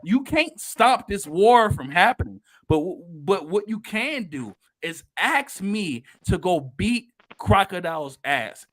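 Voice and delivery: retold angry outburst. Luffy yelling back at Vivi after she hits him, mock angry. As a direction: snap back like the hit just landed. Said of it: "Luffy hit her back".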